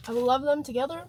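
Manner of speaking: talking through a mouthful of food; mouth full. Real, not acted. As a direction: speak around a bite of food. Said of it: "Sorry, I'm talking with my mouth full".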